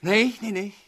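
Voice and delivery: nee shouted sharply, high; loud refusal. Acted. Villain shouting down his captive, loud refusal. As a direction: cut him off loudly, no no no.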